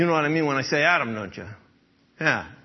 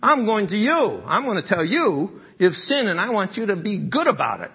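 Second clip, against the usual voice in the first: self-righteous accuser; 4 semitones higher, 3 dB louder than usual. Pretend. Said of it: "we're always thinking".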